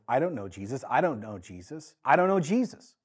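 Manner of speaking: a frightened disciple denying his teacher; Peter's denial. Acted. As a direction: deny him over and over, rising on the last.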